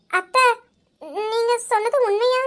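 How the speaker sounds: choked-up, crying while asking; tearful. Acted. Young wife asking her aunt through tears. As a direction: ask through tears of disbelief. Told of grandmother's gift.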